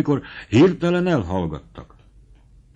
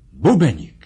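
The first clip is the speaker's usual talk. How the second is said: mild cry; 3 dB louder than usual. Acted. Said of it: "Kiáltott fel vibráló hangon".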